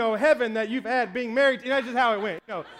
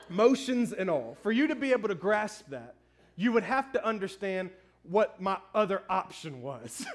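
lower, calm reply through chuckles; gentle explanation; 4 semitones lower than usual. Retold or imitated. Husband explaining to his wife, lower and amused. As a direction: soothe her while holding back laughter. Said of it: "And I was like".

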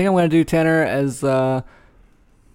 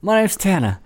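put-on English accent. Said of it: "I'm gonna do an English accent".

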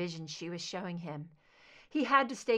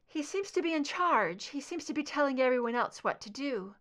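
higher, tense voice reliving a nightmare; frightened Scully; 5 semitones higher, 3 dB louder than usual. A narrator's reading. Scully under hypnosis describing the boxcar, frightened. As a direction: describe it as if trapped there now.

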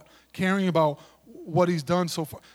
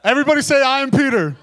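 louder, higher, laughing through it; laughing call-out; 7 semitones higher, 6 dB louder, much faster than usual. Real, not acted. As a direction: laugh as you lead the crowd.

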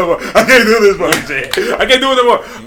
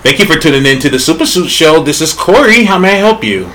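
call center voice. Shown as a demonstration. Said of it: "He said it like he's taking a call".

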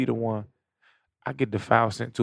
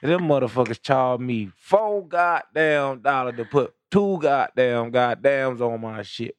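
put-on slow, stretched Georgia accent; slower than usual. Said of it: "Sound like a Georgia nigga".

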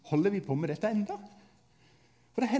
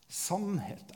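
quiet solemn repeat; 8 dB quieter than usual. Shown as a demonstration. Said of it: "Eh, sannhet".

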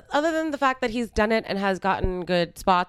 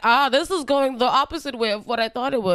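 higher, imitated dismay; retold backpedalling in a raised voice; taken-aback kid; 6 semitones higher than usual. Joker seeing the crying kid, mock dismay. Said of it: "He's like".

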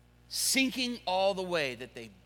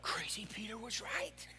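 excited fishermen; 6 semitones higher than usual. Acted. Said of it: "They're like".

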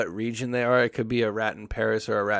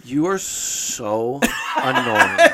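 put-on slow, whiny, laughing teen-girl sneer; lightly voiced bratty thirteen-year-old girl. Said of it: "sound like a bitchy thirteen-year-old girl".

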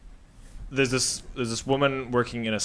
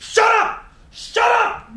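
very high, loud mock yell; robber yelling; 7 dB louder, slower than usual. Gunman silencing the clerk, hammed-up shout. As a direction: snap it like a frantic gunman. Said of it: "And she's like".

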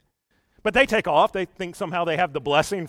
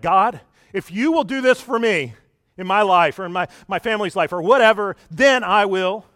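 louder mock bargaining prayer; pleading bargain; 5 dB louder than usual. Believer bargaining with God for his family's life, mock earnest. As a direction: strike a bargain, pressing each condition.

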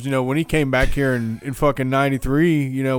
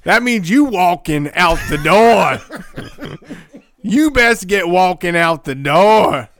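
prison guard; 4 semitones higher, 3 dB louder, slower than usual. Pretend. Mock warden gloating, laughing.

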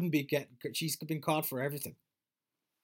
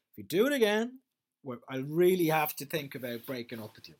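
mock indignant; 2 semitones higher, 6 dB louder than usual. Acted address to Amber.

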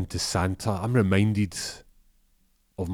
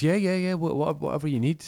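much higher, eager stammering helper; eager shop lad; 9 semitones higher than usual. Acted. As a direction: jump to please, voice up high. Arjaf eager to please.

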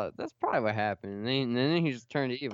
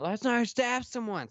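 squeaky mock outrage; 12 semitones higher than usual. Retold line, much higher.

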